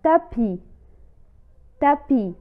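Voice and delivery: "تابي" said as tapi with a clear T; model word reading. Shown as a demonstration. Teacher reading "تابي" for learners. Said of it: "مثال".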